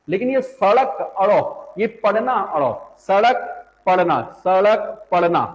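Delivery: slow सड़क and पढ़ना with the tongue flapped on ड़ and ढ़; flapped ड़ demo. Shown as a demonstration. Teacher demonstrating the dotted ड़ sound to students, slowly. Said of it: "ये जो बिंदी वाले हैं".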